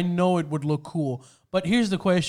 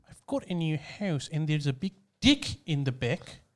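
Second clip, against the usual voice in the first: put-on New Zealand accent; 3 semitones lower, 7 dB quieter than usual. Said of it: "Give us your best New Zealand accent".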